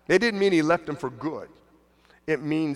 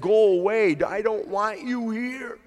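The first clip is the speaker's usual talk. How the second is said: demon voice; 4 semitones higher than usual. Retold or imitated. Demon voiced in Bible retelling.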